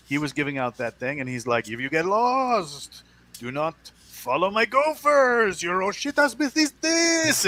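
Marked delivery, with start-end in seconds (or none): 1.7-7.4 high, slow imitated Hispanic accent; mimicked Hispanic accent, rising high; Hispanic sergeant's accent. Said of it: "his accent".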